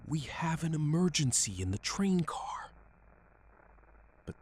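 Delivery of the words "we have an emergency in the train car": raised, higher and louder call for help; restrained shout. A narrator's reading. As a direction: call out an alarm without a full yell.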